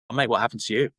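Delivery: to-the-point imitation of a mate's question; blunt British mate. British acquaintance asking about a scar, blunt. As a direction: imitate asking straight out, without sugarcoating. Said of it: "get to the point straight away".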